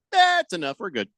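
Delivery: high-pitched mock brush-off; mock quitting. Acting out Broncos giving up early.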